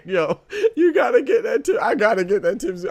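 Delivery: high, loud and excited; real excitement. Real, not acted. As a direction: hype it up. Excited about getting the clip.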